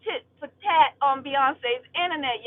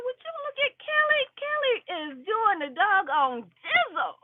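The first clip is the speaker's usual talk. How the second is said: much higher, wide-eyed start; amazed exclamation; 6 semitones higher than usual. Retold or imitated. Retelling her reaction to Kelly on stage, amazed gushing. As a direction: gush like you can't believe it. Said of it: "I said".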